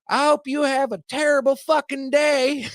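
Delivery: can't keep a straight face delivering the curse; quoting through laughter. Retold or imitated. Homeless woman's curse, retold.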